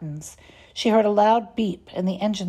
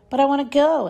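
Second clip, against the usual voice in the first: higher, louder insistent whine; child begging mom to let her go; pleading child; 7 semitones higher, 6 dB louder than usual. A narrator's reading.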